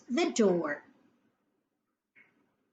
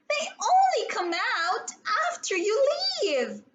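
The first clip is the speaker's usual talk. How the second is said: a touch of fearful insistence; 10 semitones higher, faster than usual. A narrator's reading. Scared girl insisting.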